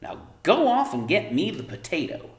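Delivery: high, loud nagging mother; Homily nagging. A narrator's reading. Mother lecturing daughter about chores, high loud nag. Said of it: "Homily went on".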